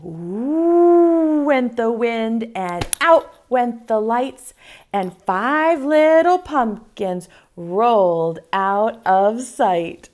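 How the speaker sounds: slow, sing-song rhyme reading; poem recital. Acted. Teacher reciting a poem to young kids, slow and sing-song. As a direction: recite the rhyme slowly for small children.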